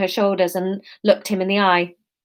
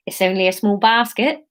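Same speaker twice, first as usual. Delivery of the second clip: put-on Somerset accent. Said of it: "this is gonna be Somerset".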